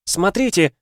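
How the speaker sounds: high tearful cry; voice breaking. A narrator's reading. Daughter showing her wounds, voice breaking. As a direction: choke back tears as you cry out. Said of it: "Голос Алеидора ломался от еле сдерживаемых слёз".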